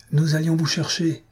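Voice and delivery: high-pitched call, without real shouting. A narrator's reading. Woman rider greeting the couple, calling out high. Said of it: "cria madame de Ligny".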